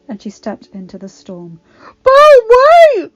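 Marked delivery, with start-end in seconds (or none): 2.0-3.1 high, loud call after her; crying out. A narrator's reading. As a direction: cry out after her as she leaves. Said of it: "he cried".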